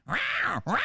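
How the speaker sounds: high, yowling cat cry. Retold or imitated. Comic impersonating the girl at the glass, high cat yowl. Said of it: "is going".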